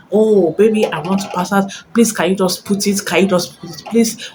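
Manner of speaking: mild mock begging, imitating her; mock pleading woman. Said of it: "now she'll be like".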